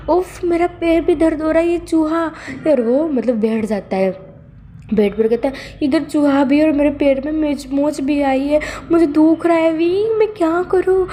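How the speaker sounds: high, whiny put-on complaint; a lightly hammed-up whiny patient; whining fake pain. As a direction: moan about the foot to get pity. Wang ji fakes pain.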